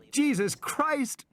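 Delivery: high, slow, drawn-out cry of fright; frightened oath. Acted. Ed Regis panics at the roaring dinosaur, frightened cry. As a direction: gasp it out in terror. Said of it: "he said again".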